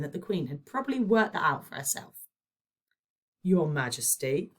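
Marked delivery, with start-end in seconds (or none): none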